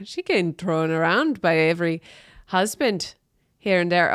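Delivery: light Jamaican patois lilt; mock Jamaican patois. Gossiping about the singer in mock Jamaican patois. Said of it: "It kinda sounds like I'm doing patois".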